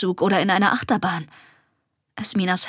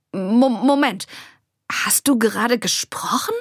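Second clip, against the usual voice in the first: stumbling, disbelieving question; startled exclamation. A narrator's reading. Girl hears her animal friend talk, startled exclamation. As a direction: trip on the first word, then ask in astonishment. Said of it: "rief Esmina".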